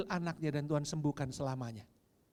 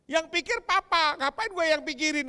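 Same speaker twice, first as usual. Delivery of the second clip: cheeky son; 14 semitones higher, 11 dB louder than usual. Retold or imitated. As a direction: drag it out like a smug teen. Repeating son's cheeky answer.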